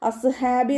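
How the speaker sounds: അസ്ഹാബി with a light, thin s; wrong thin saad. Shown as a demonstration. Teacher shows the wrong, thin അസ്ഹാബി. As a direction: say അസ്ഹാബി with a flat s sound. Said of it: "എന്ന് ഉച്ചരിക്കരുത്".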